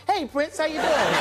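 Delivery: high voice for someone small; cutesy greeting. Retold or imitated. Chris greets small Prince, high and cooing. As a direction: greet a tiny person in a high voice.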